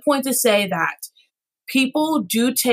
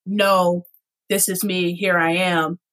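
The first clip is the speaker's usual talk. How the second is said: lower confident voice; 3 semitones lower, slower than usual. Shown as a demonstration. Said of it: "having that voice".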